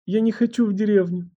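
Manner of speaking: high, desperate plea, voice catching; despairing protest. A narrator's reading. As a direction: beg not to be sent away. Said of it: "Голос Леры дрогнул от отчаяния".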